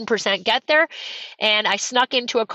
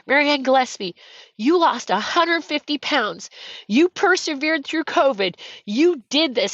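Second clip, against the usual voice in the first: slow, raised finish-line announcement; race announcer; 4 semitones higher than usual. Retold or imitated. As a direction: proclaim each achievement slowly, like an announcer. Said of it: "he says".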